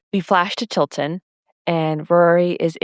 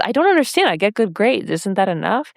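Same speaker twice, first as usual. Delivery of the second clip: bewildered Rory; 3 semitones higher than usual. Retold or imitated. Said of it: "And Rory says".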